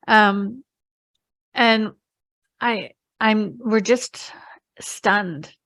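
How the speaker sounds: whispering, barely voiced; stunned whisper. Real, not acted. Telling the story, she whispers how stunned they were. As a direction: breathe the words out in shock.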